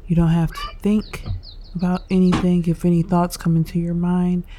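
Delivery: unhurried meditation guide with long pauses; guided meditation. Real, not acted. Host guiding listeners through breathing and stretches, calm meditation delivery. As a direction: lead them calmly through each breath, leaving space.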